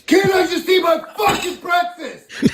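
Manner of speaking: angry shout. Acted. Dad yelling at son.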